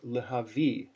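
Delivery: spoken "lehavi", stress on "vi"; teacher modelling "lehavi" with final stress; word with its accent. Shown as a demonstration. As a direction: say "lehavi" without singing, landing on the end. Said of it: "Second step".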